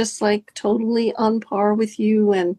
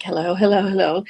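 lower, grounded hellos; voice dropped low; 4 semitones lower, faster than usual. Shown as a demonstration. Coach shows the lower body voice with hand down. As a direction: let the voice sink into the body. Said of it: "notice your voice goes down".

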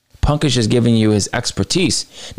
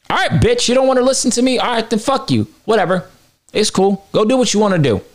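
higher, dismissive brush-off; mock fed-up retort; 8 semitones higher, faster than usual. Host playing Punk telling off Perry, much higher and dismissive. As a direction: toss it off like you're done with him. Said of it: "that's what I would've said".

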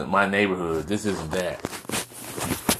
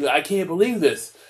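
high-pitched mock distress, stammering in disbelief; mock crying; 6 semitones higher than usual. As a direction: act out a hammed-up, scandalized fuss. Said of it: "we're all scrambling and crying like".

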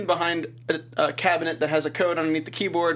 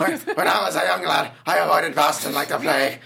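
put-on accent of a Boston guy. Boston guy bad-mouthing his own city, mock Boston accent. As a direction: ham up a Boston local, half laughing. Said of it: "It's like a Boston guy talking crap about Boston".

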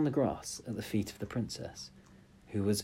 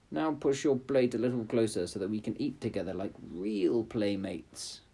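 frog voice. Acted. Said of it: "he said".

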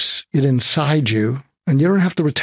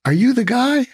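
much higher, pleading ask; desperate plea; 11 semitones higher than usual. Retold or imitated. Desperate driver begging the trucker, high pitched plea. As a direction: beg him to end it, half laughing.

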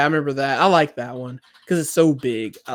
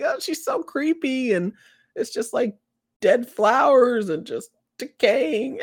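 higher, slow disgusted mom voice; imitating mom; 9 semitones higher, slower than usual. Quoting the mom's disgust at the painting, higher and slower. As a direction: mimic a squeamish mom. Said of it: "'Cause she's like".

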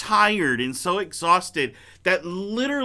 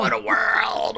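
dramatic sick man; 4 semitones higher than usual. Retold or imitated. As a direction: wail it like a dying man. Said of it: "Willie gets sick".

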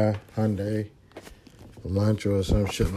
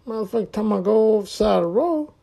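high, alarmed voice of the other driver; the other driver, spooked, refusing; imagined other driver; 10 semitones higher than usual. Retold or imitated. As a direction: play the scared driver backing out. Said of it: "that motherfucker probably thinking like".

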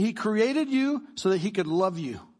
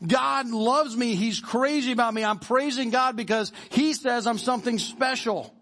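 fired-up Paul; 2 semitones higher than usual. Retold or imitated. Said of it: "he's getting fired up about it".

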